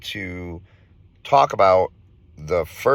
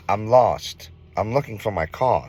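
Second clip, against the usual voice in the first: lightly imitated British-accented woman, slightly raised; a touch of British accent, higher; 4 semitones higher than usual. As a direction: put on a light British accent for a lost stranger. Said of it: "she had some kind of British accent".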